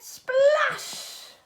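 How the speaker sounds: slow, lightly voiced captain growl. A narrator's reading. Captain finding soapy bucket, mild slow growl. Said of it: "growled the captain".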